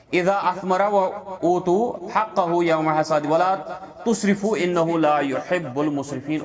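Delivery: measured melodic Quran recitation. Real, not acted. Teacher reciting the verse to his students, measured chant. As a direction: chant the Arabic verse with care.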